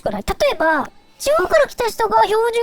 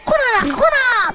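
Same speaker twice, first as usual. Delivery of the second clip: Kansai dialect; 5 semitones higher than usual. Pretend. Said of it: "関西弁好きだから".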